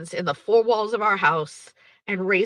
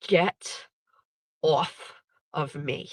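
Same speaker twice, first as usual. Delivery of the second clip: each word set apart, sinking lower; stone cold; 3 semitones lower, 4 dB quieter, much slower than usual. Retold or imitated. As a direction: push them away coldly, one word at a time. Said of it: "fucking stone cold".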